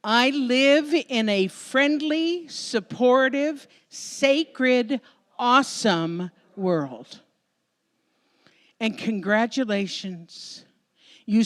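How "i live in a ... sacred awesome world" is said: slow, emphatic group affirmation. Shown as a demonstration. Speaker leads the audience in closing affirmation, slow and emphatic. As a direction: lead the room in a solemn chant. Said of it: "Let's say this together".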